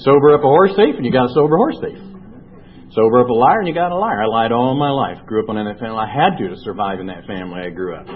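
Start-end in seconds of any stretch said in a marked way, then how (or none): 0.1-4.2 louder, punching each half of the saying; emphatic saying. Real, not acted. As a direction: hammer the saying home.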